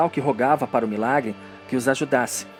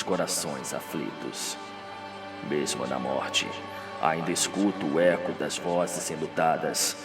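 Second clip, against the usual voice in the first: low, hushed, slow deathbed voice; dying Radamés; 9 semitones lower, 8 dB quieter than usual. Acted. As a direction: speak softly and deep, as from a deathbed.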